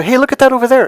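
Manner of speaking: sudden loud, high call to distract; kinda loud. Shown as a demonstration. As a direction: abruptly call out to break the moment. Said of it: "like, kinda loud".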